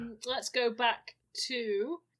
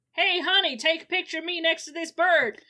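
tourist voice; 7 semitones higher, 8 dB louder than usual. Acted.

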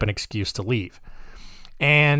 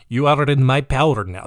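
lightly put-on Russian accent; mock villain with a hint of Russian accent; attempted Russian accent, still finding it; almost-Russian accent. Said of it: "That's almost Russian".

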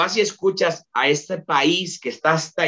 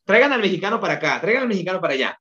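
quick, higher-pitched call; imitated eager summons; 6 semitones higher, much faster than usual. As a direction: play people clamouring for the newcomer. Voices people summoning him as novelty.

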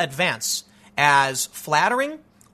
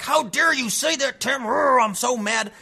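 a hammed-up, put-on angry voice, higher; mock angry viewer; 4 semitones higher than usual. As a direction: imitate an offended viewer in a mocking tone. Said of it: "really angry and be like".

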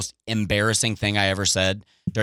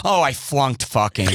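laughing bummed; slower than usual. Retold or imitated. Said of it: "I'm like".

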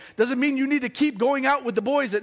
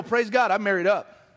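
grateful declaration. Retold or imitated. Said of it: "look in the mirror and go".

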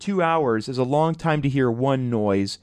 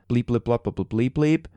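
mock censor bleeps; 3 semitones lower than usual. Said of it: "That's his phone number".

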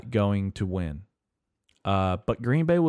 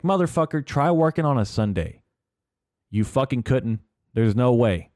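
pitched way up, exasperated; exasperated rant; 4 semitones higher than usual. Real, not acted. Service worker ranting at Monday complainers, exasperated high. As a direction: throw it back at the complainers, higher.

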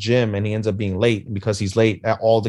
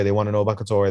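ordinary talk, nothing marked

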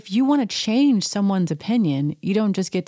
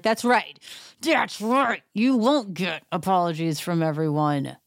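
ranting at the TV; 3 semitones higher than usual. Real, not acted. Retort at Erica on TV.

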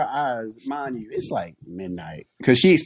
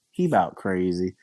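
tired aunt; 5 semitones lower than usual. Retold or imitated. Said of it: "just the way she is".

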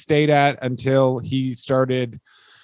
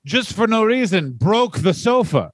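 higher, earnest doofus husband boasting; dim proud husband; 4 semitones higher than usual. Acted. Wrestler telling wife he broke the sofa, earnest doofus pride. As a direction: proudly explain the dumb thing like a big child.

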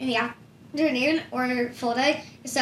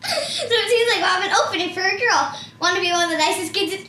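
laughing through the announcer line; giggly TV host delivery; 6 semitones higher than usual. Shown as a demonstration. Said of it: "I will say my line".

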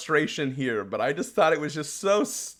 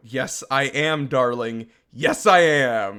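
smug reply; 4 semitones lower, slower than usual. Retold or imitated. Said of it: "And I went".

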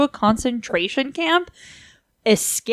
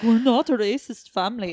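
put-on botched British royal accent; lightly put-on, off-target British accent; wrong British accent. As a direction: attempt a British accent and miss. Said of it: "a complete wrong accent".

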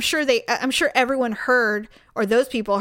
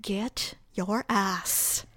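angry inner rant. Retold or imitated. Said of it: "And I'm like".

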